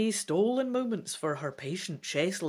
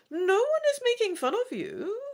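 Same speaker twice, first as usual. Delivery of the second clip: calling after. A narrator's reading. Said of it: "calls after you".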